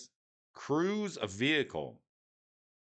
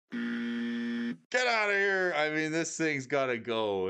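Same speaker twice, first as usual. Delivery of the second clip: dismissive; 3 semitones higher, slower than usual. Acted. Dismissing a gibberish card.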